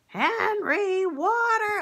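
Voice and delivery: high, loud bossy call; ordering yell. Acted. Wife ordering Henry to get water, loud high yell. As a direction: bark the order across the yard. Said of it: "Instead of just ordering him".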